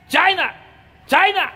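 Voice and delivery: high-pitched jeering cry of China; high mock call. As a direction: shout China up high, teasing. Mocking calls of China.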